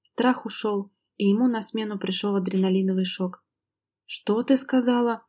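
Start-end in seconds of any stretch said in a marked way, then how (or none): 4.0-5.2 slow, higher, a touch of simmering rage; seething with anger. Acted. Husband slowly questioning his wife, a touch of seething rage. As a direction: let the anger bubble under the question. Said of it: "вибрирующим от гнева, клокочущим голосом спросил Макс".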